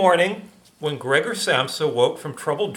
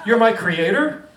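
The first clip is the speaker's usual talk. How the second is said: high, surprised little bug; chittering thing; 7 semitones higher, 5 dB louder than usual. Acted. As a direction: chirp it like a startled insect. Gregor voiced in story.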